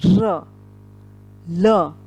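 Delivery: र and ल said clearly, tongue at the ridge; ridge letters. Shown as a demonstration. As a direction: press the tongue behind the teeth for र and ल. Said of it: "दंत मूल के साथ ही बाहर आ रही है". (र, ल दंत मूल से)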